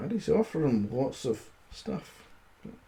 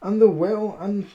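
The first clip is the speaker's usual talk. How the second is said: high, loud mock growl; a scared giant blustering; 7 semitones higher, 5 dB louder, slower than usual. Credulous giant growls at the boasting tailor, hammed-up. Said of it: "growled the credulous giant".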